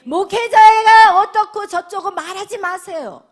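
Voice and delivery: loud, slow emphatic command; preaching shout. Real, not acted. Preacher shouting an exhortation to the congregation. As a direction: hammer the warning home.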